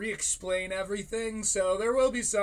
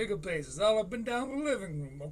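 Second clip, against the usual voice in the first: mock echo; 2 semitones higher than usual. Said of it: "echoes co-host mockingly".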